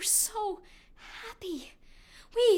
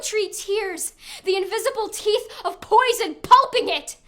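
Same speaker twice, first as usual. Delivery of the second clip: horrified outcry; 3 semitones higher, 6 dB louder than usual. Acted. Gruesome death described.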